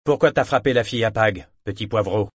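lance la question fort, en bourru; voix de marin qui apostrophe, plus forte; interpellation forte. Acted. (un marin apostrophe Althea, voix forte)

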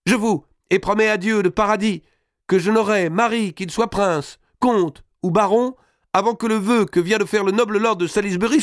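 put-on very high, thin young lady's vow; high-pitched maidenly oath; shrill little voice. A narrator's reading. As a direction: declaim primly in a piping, slightly sour voice. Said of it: "dit d'une voix aigrelette".

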